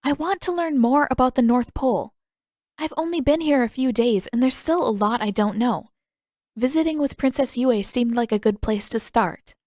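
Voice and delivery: lightly voiced girl pressing her case; earnest Katara. Katara pleads with guard.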